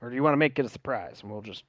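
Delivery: a hint of a promoter sounding out his fighter; drow fight organiser. Voices the drow weighing the matchup.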